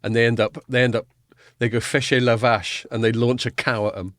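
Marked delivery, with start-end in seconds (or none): 1.8-2.9 slow mock-French command; obnoxious French bloke. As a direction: imitate a silly French castle guard. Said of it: "this obnoxious French bloke".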